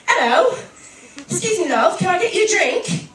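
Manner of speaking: imitated Australian pick-up line; Australian man. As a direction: play an Australian guy offering a drink. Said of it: "this hot Australian guy".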